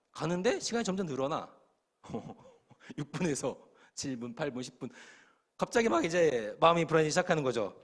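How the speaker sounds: ordinary delivery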